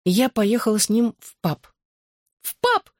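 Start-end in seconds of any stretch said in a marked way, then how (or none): 2.4-2.9 shrieked much higher, mock-shocked. A narrator's reading. Claire shrieks at her friend's news, high-pitched squeal. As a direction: squeal the question in disbelief. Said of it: "завизжала она".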